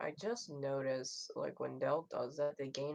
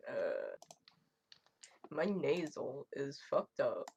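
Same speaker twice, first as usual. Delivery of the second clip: normal talking voice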